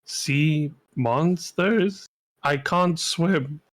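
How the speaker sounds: slow, mildly nervous question and admission. Acted. Non-swimmer hears of sea monsters, mildly nervous. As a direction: draw the words out, a touch uneasy. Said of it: "you can tell he's looking nervous".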